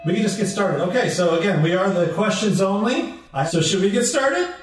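softly pleading host voice; polite, timid host. Acted. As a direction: meekly address an indifferent crowd. Bobby awkwardly starts the show.

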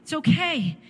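tender, insistent comfort, lifting on "okay"; reassuring Father. Retold or imitated. God holding His suffering child, voiced reassuring comfort. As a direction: voice a loving father's firm reassurance. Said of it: "He is saying".

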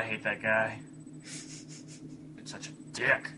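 breathy, unvoiced whisper under the breath; whispered insult. Real, not acted. Muttered insult about another player.

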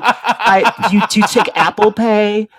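high laughing ask; asking the attendant about paying, laughing and high; sheepish laughing question. Retold or imitated. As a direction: laugh through the awkward question. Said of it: "I was like, I was like".

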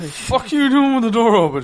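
mock outraged yell. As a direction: yell it like you just walked in on her. Retold reaction to open bathroom door.

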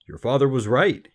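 high, loud delight; delighted praise. A narrator's reading. Delighted king to the girl, pleased. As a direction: praise her with royal pleasure.

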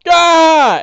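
full-force, high-pitched panicked shout; screaming in alarm. Acted. Game master as an attacked orc, screaming for help. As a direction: scream the alarm at the top of your range. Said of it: "he's screaming out".

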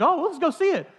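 put-on high, bright dad cheering his kid on; playful dad hamming up excitement for his daughter; mock enthusiasm. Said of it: "I'm like".

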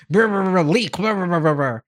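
mouth-made static around one clear word; imitated garbled radio. Podcaster imitating Helen's intercepted radio message, garbled static. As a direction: burble like a broken radio transmission. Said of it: "they're gonna have a radio thing of Helen".

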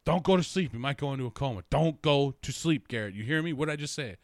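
mock frantic mom warning; worried mom. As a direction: insist he stays awake. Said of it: "And she's just like".

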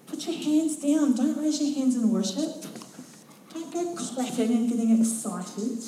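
telling the church to calm down; scolding. Retold or imitated. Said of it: "don't get too on fire".

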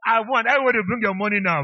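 loud, insistent claim of winnings; triumphant demand. Real, not acted. Preacher collecting on a bet with congregation, triumphant demand. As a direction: demand the payout at full voice.

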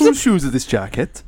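attempted Welsh lilt; Welsh accent. Searching for a Welsh phrase, attempted Welsh accent. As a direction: imitate Welsh sing-song. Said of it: "how do Welsh talk like?".

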